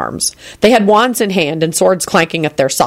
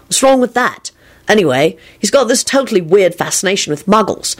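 high, happy enthusiasm; pitched-up, cheerful defensiveness; 4 semitones higher than usual. A narrator's reading. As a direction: gush happily to a friend. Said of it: "he finished happily".

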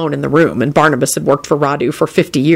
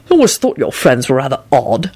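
low, even, unimpressed remark; impassive; 4 semitones lower than usual. A narrator's reading. Host comments on friend's company, impassive. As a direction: observe it without feeling, pitched low. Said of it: "Quentin commented impassively".

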